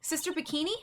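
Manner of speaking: high-pitched, surprised nun voice; high, lively caricature voice; cheery nun character. Acted. Voices Sister Bikini.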